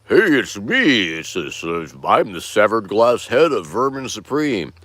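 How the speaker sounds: a lightly voiced talking pipe head; glass head voice. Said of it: "Glass Vermin's head speaks like this".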